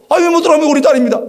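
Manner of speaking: high, fast protesting parent; indignant protest. Retold or imitated. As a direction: argue fast, outraged at the nurse. 수술실 앞에서 항의. (빠르고 높은 억울한 항의)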